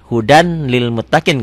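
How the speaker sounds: "hudan lil" with a distinct N; N sounded as written. Shown as a demonstration. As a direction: pronounce the final N of "hudan". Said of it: "Tulisannya kan hudan".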